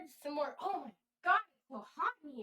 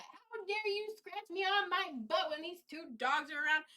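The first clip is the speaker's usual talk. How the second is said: higher-pitched imitation of an indignant pet; mock outraged cat; 6 semitones higher than usual. Cat scolding owner over a scratch, mock outrage. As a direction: voice the cat's huffy outrage, playfully. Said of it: "she lost her shit. She flipped her lid".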